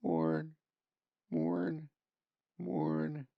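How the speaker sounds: a small bird's one-note call. A narrator's reading. Small gray bird calling from the spruce top, a lightly voiced one-note bird call. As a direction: sing out each morn like a bird. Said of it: "one-note call".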